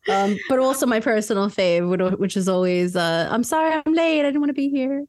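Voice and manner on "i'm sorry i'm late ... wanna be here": mock apology. Acted guest excuse.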